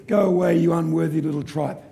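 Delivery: lightly voiced put-down; a touch of mock contempt; scornful inner critic. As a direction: dismiss them like a mild inner saboteur. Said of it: "and then B says".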